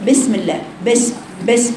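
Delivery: بسم with a flattened kasra; wrong kasra. Shown as a demonstration. Teacher shows the incorrect بسم. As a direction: clip the بس sound. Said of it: "غير صحيح".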